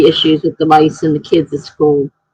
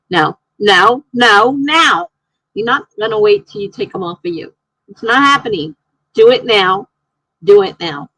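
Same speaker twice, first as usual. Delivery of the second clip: frantic insisting; 3 semitones higher than usual. Retold or imitated. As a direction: insist it's urgent, voice climbing. Insisting friend remove ticks now.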